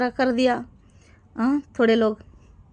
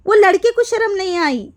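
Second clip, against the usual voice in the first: louder and higher, stress on लड़के; indignant outburst; 5 semitones higher, 4 dB louder than usual. Real, not acted. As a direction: throw out वो लड़के को शर्म नहीं आई in outrage. Angry rant repeating the line. (गुस्से में ऊँची आवाज़)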